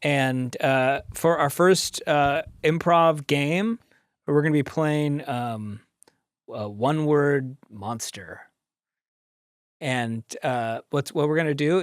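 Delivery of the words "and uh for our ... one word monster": slow, drawn-out show intro; announcer voice. Acted. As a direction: present the troupe like a host.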